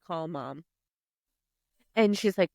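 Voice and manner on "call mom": very soft, faint request from the floor; retold feeble plea, barely voiced; weakly pleading. Hungover sister lying on the shower floor, weakly pleading. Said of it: "just laying on the shower floor".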